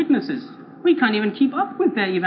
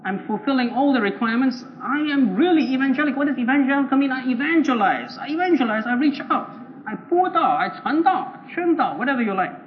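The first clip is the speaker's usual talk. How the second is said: insistent, higher-pitched protest; exasperated self-defence; 4 semitones higher than usual. Acted. Evangelical claims he meets all requirements, exasperated self-defence. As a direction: list your efforts as if wronged.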